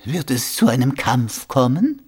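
a touch of worry, rising at the end; worried question. A narrator's reading. Rudolf asks about a coming fight, mildly worried. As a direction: ask with mild concern. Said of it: "fragte Rudolf besorgt".

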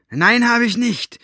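loud, high, slow yell; shouting back. A narrator's reading. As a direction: bellow each word back. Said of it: "schrie Staubfinger zurück".

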